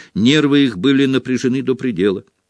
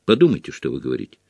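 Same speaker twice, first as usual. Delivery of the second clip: lower, quick calm caution; composed, unhurried authority without force; unruffled; 6 semitones lower, much faster than usual. A narrator's reading. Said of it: "С обычной невозмутимостью".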